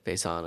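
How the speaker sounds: "Faison" said fay-ZAHN; French-style pronunciation. Shown as a demonstration. Offering his own take on the brewery name, "Faison" as fay-zahn. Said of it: "how I would potentially say it".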